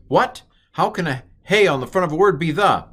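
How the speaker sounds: high, loud, hammed-up disbelief; mock astonishment. Teacher faking shock that a hey means the. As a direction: play the baffled student, wide-eyed. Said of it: "teacher mocking disbelief".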